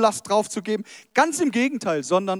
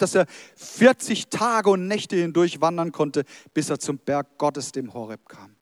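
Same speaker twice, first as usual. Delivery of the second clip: dramatic storytelling with drawn-out phrases; story narration. Acted. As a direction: tell it slowly, building to each reveal. Continues reading the story. (dramatisch vorgelesene Geschichte)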